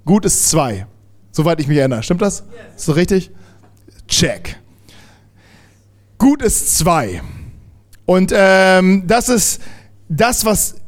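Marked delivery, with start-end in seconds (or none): 4.1-4.6 whispered aside. Real, not acted. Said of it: "quick aside".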